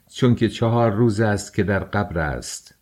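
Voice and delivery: چهار said firmly, with a light push on it; چهار given a firm, steady stress; stress on four. A narrator's reading. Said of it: "سونیا بر کلمهٔ چهار تکیه کرد و آن را محکم ادا نمود".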